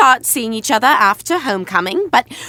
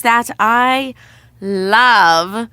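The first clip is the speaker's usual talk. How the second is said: sarcastic; much slower than usual. Acted. Sarcastic about unplanned proposal.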